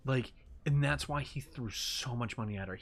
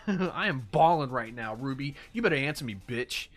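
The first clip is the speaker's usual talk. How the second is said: mock outburst; 4 dB louder than usual. Mocking the fan's angry text.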